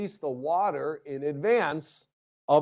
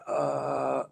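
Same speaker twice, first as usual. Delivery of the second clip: a light Biden, one long drawn-out uh; Biden impression. Lecturer showing students his presidential impressions, light Biden. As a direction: hold a level, lingering uh as Biden. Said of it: "This is my Biden".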